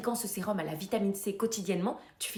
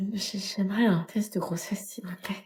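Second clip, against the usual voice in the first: embarrassed whisper; 3 dB louder than usual. Acted. Demande genante en pharmacie.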